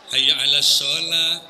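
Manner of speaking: slow chant through a laugh; laughing mock call; mocking the wavy adhan. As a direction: tease the overdone melody. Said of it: "lagu-lagu Yopilatul dimasukkan ke azan".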